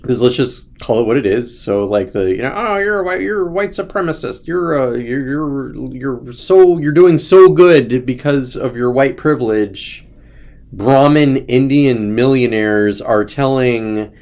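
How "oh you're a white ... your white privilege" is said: high, sneering mock voice that slows to a drawl; mocking quote. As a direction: parody the accuser, starting high, then slow and drawn out. Mocking an anti-white accuser.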